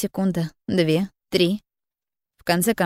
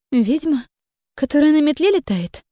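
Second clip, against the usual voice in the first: bewildered; 8 semitones higher, 3 dB louder than usual. Acted. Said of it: "Недоумевала она".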